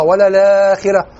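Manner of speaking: ولا الآخرة linked, with a lengthened aa; Warsh reading. Shown as a demonstration. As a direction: draw out the madd in ولا الآخرة. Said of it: "صديق المغربي بن ورش". (نطق ولا الآخرة على رواية ورش)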